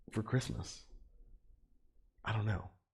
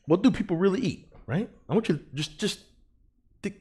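emphatic; 11 semitones higher, 4 dB louder than usual. Real, not acted. Pressing question to viewers.

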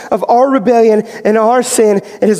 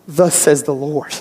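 solemn proclamation; 8 semitones lower, 5 dB quieter, slower than usual. Acted. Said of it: "I can stand on this stage and I can say something".

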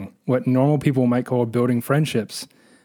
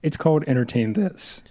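voice cracking; 2 semitones higher than usual. Real, not acted. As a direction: voice cracks on the show title. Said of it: "my voice just cracked".

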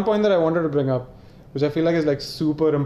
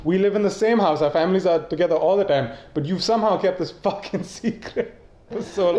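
incredulous rant; 4 semitones higher than usual. Pretend. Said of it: "I would have been like".

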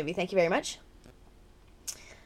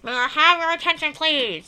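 imitating announcer; 4 semitones higher than usual. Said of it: "That stuff".

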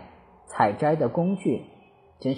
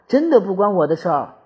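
quick, higher protest; 5 semitones higher, 5 dB louder, faster than usual. A narrator's reading. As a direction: insist it's not your fault. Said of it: "她开口反驳道".

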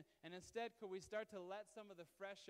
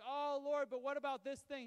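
mock pleading believer; 6 semitones higher, 9 dB louder than usual. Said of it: "You're like".

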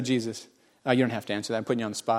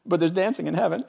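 soft aside; 5 dB quieter than usual. Acted. Quiet aside, then loud repeat.

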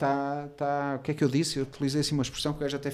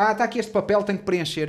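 dismissive clerk; 6 semitones higher, 4 dB louder than usual. Retold or imitated. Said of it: "E ela".

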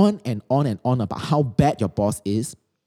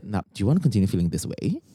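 sarcastic; 5 semitones lower, 4 dB quieter, faster than usual. Acted. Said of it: "Do you really speak in this tone?".

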